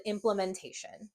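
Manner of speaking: "implementation" with the A reduced to a quick schwa; schwa pronunciation. Shown as a demonstration. Teacher giving the natural everyday pronunciation. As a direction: say it quickly with a lazy A. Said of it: "lazy sound called a schwa".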